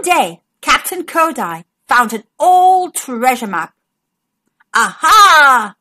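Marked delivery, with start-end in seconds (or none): 4.7-5.7 loud pirate aha; hearty pirate cry; pirate exclamation. Acted. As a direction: bark it like a captain. Captain exclaims.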